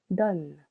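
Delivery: one syllable "Donne" with open vowel; open O demonstration. Shown as a demonstration. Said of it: "Letter O changes to O".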